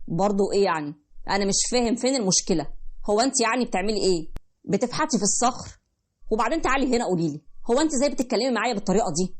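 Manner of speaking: dismissive husband. Acted. Husband mocking his pregnant wife's complaint, dismissive. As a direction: shrug her complaint away, mocking.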